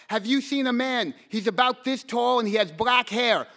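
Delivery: a mild mock yell at strangers; retold shouting. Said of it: "I screamed at anyone I saw".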